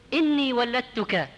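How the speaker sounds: ولدتك slow, with the ل doubled: wal-ladtuka; deliberate shadda on the lam of ولدتك; heavy doubled lam. Shown as a demonstration. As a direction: lean hard on a doubled ل in ولدتك. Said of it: "بحرف ثقيل خففوه".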